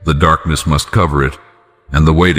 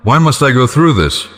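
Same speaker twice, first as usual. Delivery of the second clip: anguished cry; 7 semitones higher than usual. Retold or imitated. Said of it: "You cry out".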